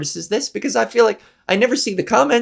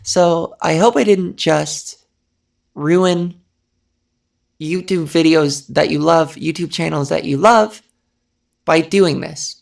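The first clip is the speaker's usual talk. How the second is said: lower-pitched breathy voice; 4 semitones lower than usual. Real, not acted. Speaker hoping they didn't ruin YouTube for listeners, breathy. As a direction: settle down low and let the breath through. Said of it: "I forgot to be breathy".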